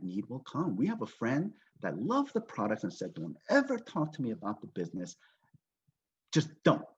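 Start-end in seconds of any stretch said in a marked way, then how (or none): 3.1-6.8 firm retold refusal, hard final word; adamant. Friend refusing any business talk, adamant. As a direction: lay down the law, lightly acted. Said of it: "she was adamant about us".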